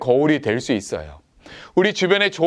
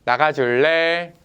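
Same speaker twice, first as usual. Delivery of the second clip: slow, gentle "나가줄래?" as a kind request; gently; slower than usual. Retold or imitated. Older brother kindly asks his little brother to leave. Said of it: "다정하게".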